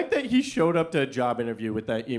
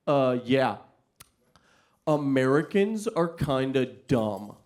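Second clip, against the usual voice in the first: deadpan student; 3 semitones lower, slower than usual. Retold or imitated.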